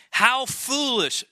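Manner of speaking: put-on slow scornful exclamation from the old prophet; exclaiming. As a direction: stretch it out in disbelief. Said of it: "Samuel exclaimed".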